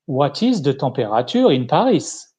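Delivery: English laid on with a heavy French accent; thick French accent. Shown as a demonstration. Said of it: "with my f-, thick French accent".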